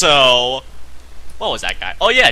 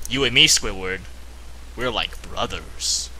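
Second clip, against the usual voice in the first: SpongeBob quote; 9 semitones lower, 10 dB quieter than usual. Retold or imitated. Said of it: "you know what he said".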